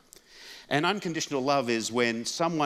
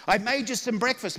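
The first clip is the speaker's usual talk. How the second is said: put-on sweet old mum; 11 semitones higher than usual. Mum serving breakfast.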